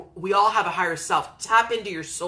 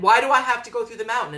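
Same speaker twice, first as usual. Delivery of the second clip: whiny Frodo; 6 semitones higher, 5 dB louder, much faster than usual. Retold or imitated. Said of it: "And he's like".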